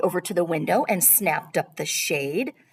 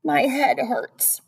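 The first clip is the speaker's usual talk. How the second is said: moaning; 7 semitones higher, 3 dB louder, slower than usual. A narrator's reading. Sarah trudging into the kitchen, moaning complaint. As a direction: complain with a drawn-out whine. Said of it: "she moaned".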